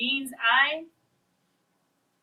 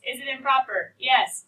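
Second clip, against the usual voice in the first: inner thought voiced aloud; 2 semitones higher, 8 dB louder than usual. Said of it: "Thought process".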